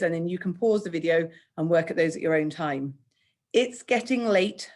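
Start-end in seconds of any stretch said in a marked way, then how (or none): 3.5-4.7 slow, higher whiny moan. Acted. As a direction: drag it out like a tired complaint. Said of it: "moaned James".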